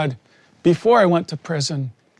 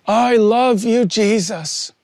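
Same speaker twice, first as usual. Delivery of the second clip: higher, building plea of love; tearful, rising confession; 4 semitones higher, slower than usual. Retold or imitated. Prisoner weeping aloud to Jesus in his cell, higher swelling plea. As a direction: let the love swell upward as the tears break through. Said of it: "I was weeping aloud".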